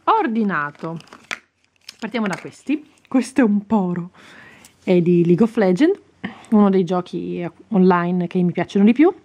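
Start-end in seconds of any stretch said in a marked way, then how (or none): 3.1-9.1 voce impastata, qualcosa in gola; rospo in gola. Real, not acted. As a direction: parla col rospo in gola. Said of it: "ho qualcosa in gola". (gola non libera prima di schiarirla)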